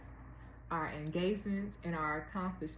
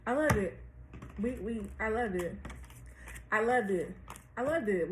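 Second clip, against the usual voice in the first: excited; 3 semitones higher than usual. Real, not acted. Excited reaction to card.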